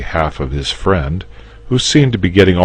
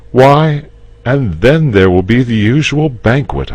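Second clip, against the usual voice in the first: higher, louder, listing the festivities; knight explaining; 10 semitones higher, 7 dB louder than usual. Acted. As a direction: play out the ceremony. George's speech.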